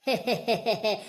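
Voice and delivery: wicked little chuckle; acted villain's laugh; gloating laugh. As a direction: laugh at a bewitched victim. Laughs while tormenting a victim.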